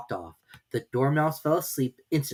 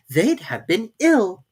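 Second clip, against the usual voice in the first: gentle; 8 semitones higher, 7 dB louder, slower than usual. Acted. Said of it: "Alice gently remarked".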